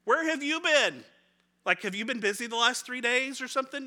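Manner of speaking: can't believe he missed it; a hint of exasperated travellers; incredulous disciples. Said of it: "And they're like".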